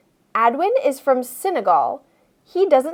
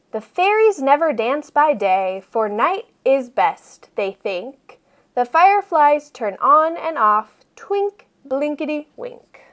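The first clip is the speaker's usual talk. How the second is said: sing-song poem. Acted. Poem read from book.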